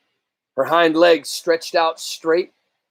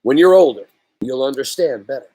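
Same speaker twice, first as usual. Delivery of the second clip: gentle voice. Acted. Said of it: "in a gentle voice".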